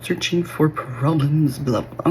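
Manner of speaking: slow, drawn-out mock put-down; retold belittling. Ex belittling her over her depression, retold mockingly. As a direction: imitate someone belittling you, stretching the words. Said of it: "I remember him belittling me".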